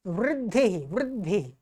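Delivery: "वृद्धि" said softly with a clear व and the ऋ sound; soft, careful "वृद्धि"; pronunciation demo. Shown as a demonstration. Teacher showing pupils how to say the word, quietly. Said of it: "ये क्या है?".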